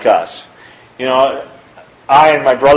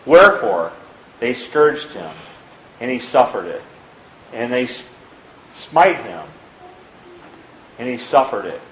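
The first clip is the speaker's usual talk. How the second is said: measured, solemn Bible reading; scripture reading; 3 dB quieter than usual. Acted. Preacher reading Mark to his congregation, solemn reading. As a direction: read the verses with reverent weight. Preacher reads Nephi passage.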